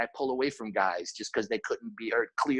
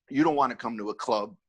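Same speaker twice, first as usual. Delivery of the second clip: half-laughing mock yell at the crew, louder; shouting it out through a laugh; 5 dB louder than usual. Head of security to his bouncers, a laughing mock yell. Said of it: "I used to always say".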